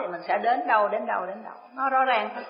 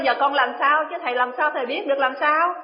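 exasperated retort; 4 semitones higher than usual. Retold or imitated.

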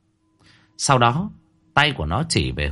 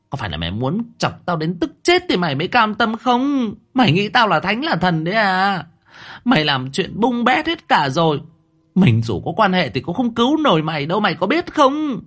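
much higher shrill scolding, peaking at the end; 10 semitones higher than usual. A narrator's reading. Mother berating her daughter. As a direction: berate her without pause. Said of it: "Bà Vương mắng".

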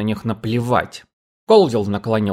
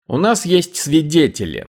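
higher, self-satisfied sheriff; smug tone; 6 semitones higher than usual. A narrator's reading. The sheriff smugly tells Colvill they have witnesses. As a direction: savor the words, pleased. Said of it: "самодовольным тоном объяснил шериф".

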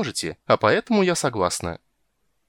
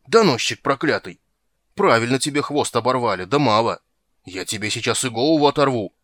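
louder, snarling threat; furious shark; 2 semitones higher, 5 dB louder than usual. Acted. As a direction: tear into the snitch.

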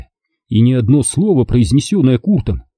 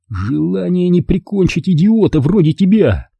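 sarcastic thought; 7 semitones higher than usual. Acted. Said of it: "подумал я".

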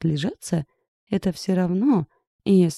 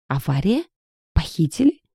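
gasped surprise. A narrator's reading. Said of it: "Ухнула Ирка".

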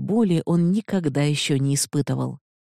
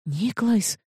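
breathed out; 6 semitones higher than usual. Acted. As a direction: let the name out on a breath. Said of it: "выдохнула она".

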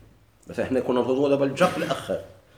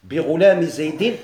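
بغلام زيد spelled out slowly, each word clear; slow it down so students hear بغلام زيد; slow example phrase; 2 semitones higher, 5 dB louder, slower than usual. Shown as a demonstration. Teacher reads the example to the class, slow and clear. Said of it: "غلامي شكون عطى الجر؟".

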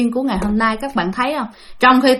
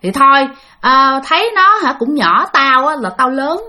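softening gently; 3 semitones higher than usual. Retold or imitated. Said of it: "từ từ nhẹ nhàng lại".

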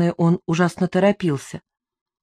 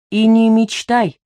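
higher, slow and haughty; 4 semitones higher, 5 dB louder, slower than usual. A narrator's reading. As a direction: look down on him and dismiss it. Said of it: "ответила я высокомерно".

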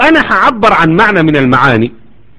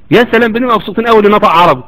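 usual speaking voice

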